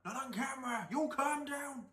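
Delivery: loud, high hammed-up yell; mock shouting. Scolding the vlogger on screen, loud mock yell. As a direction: bellow it like a scolding.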